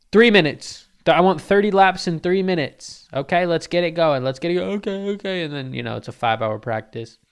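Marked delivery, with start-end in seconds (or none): 0.1-5.4 loud, high furious orders; screaming coach dad. Retold or imitated. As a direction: bark the deadline at the kid. Dad yells at son.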